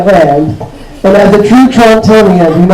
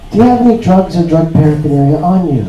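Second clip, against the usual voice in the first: mild, everyday customs officer; customs lady; 2 semitones lower than usual. Acted. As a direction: ask it as a casual routine question. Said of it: "And she's like".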